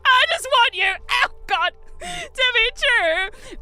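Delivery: high, loud Transylvanian belting; strained Transylvanian accent, pulling free. Retold or imitated. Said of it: "in a Transylvanian accent".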